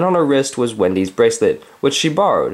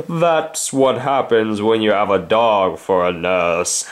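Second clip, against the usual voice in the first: grumbling father; slower than usual. Acted. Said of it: "but he would only say".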